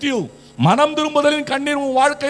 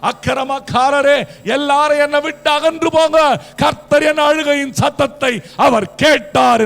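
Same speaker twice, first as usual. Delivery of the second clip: loud, emphatic bold proclamation; bold declaration; 3 semitones higher, 5 dB louder than usual. Acted. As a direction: declare it boldly, banishing the wicked. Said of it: "தைரியமா சொன்னா". (தைரியமான உரத்த அறிவிப்பு)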